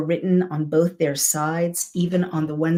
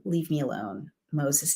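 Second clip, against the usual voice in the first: hurt withdrawal; 6 dB quieter than usual. Retold or imitated. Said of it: "God is heartbroken, and he's saying".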